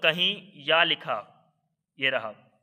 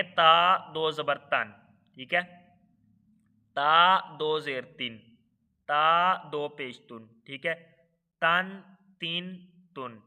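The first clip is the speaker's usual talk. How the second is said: slow, even chant of letter, harakat, sound; Qaida spelling drill; slower than usual. Shown as a demonstration. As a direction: sound it out syllable by syllable for the class. (قاعدہ کی ہجے کی مشق، ٹھہر ٹھہر کر)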